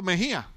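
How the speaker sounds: Mejía, dropping the final s; without the S. Shown as a demonstration. Preacher showing how he says his surname without the s. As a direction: say Mejía with no s at the end. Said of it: "Entonces yo digo".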